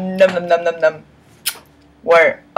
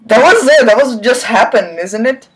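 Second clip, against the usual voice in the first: incredulous; 4 semitones higher than usual. Real, not acted. Reader stunned by the typo.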